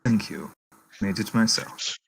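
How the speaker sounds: put-on understated thanks in a German accent; German-accented, modest reply. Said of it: "I can't get out of the German now".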